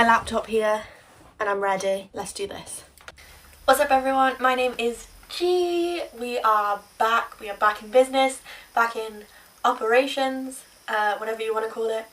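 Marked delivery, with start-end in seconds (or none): 3.6-12.1 talking while chewing gum. Real, not acted. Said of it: "I also have chewing gum in my mouth".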